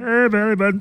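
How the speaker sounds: put-on high, childish kid voice; five-year-old voice. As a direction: play a little kid showing off. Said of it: "like I'm a five-year-old".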